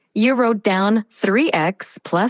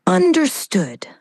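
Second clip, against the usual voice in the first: whisper; 5 semitones higher than usual. Acted. Whispered reply.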